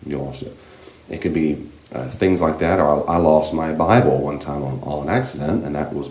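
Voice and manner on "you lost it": comforting parent. Retold or imitated. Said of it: "What you say is".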